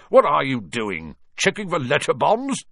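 loud jeering question, rising high; shouting. A narrator's reading. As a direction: call out a mocking joke. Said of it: "shouted Uncle Vernon from the kitchen".

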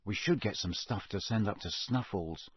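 under the breath, plotting; muttered. Acted. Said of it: "Harry muttered".

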